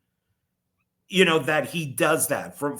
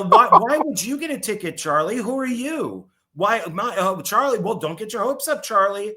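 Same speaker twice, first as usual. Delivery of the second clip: lightly voiced sneering mother; mock downer mom; 4 semitones higher, 3 dB louder than usual. Mom mocking Charlie's chance of a ticket, lightly sneered. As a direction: dismiss the kid's hopes with a mock sneer. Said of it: "His mom is such a downer".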